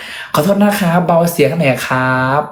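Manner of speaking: slow, courteous plea; polite request. Retold or imitated. Asking housekeepers at the door to keep it down, slow polite. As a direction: ask nicely, holding back anger.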